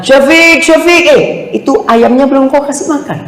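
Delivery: a high-pitched mother calling her son across the room. Retold or imitated. Mother interrupting her son's lesson, calling him in a high voice. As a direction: call out to the son from afar, high and insistent. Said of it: "dipanggil ibunya".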